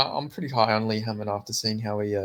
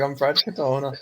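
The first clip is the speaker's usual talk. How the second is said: mock Katona accent; 3 semitones higher, 4 dB louder than usual. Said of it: "I can't even do the accent".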